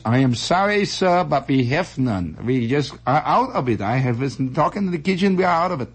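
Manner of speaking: lightly voiced apologetic waiter; stiff waiter. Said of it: "And the waiter says".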